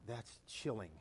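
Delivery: very low, soft aside; hushed awe. Retold or imitated. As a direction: drop right down as if stunned. Retold awed reaction to the call.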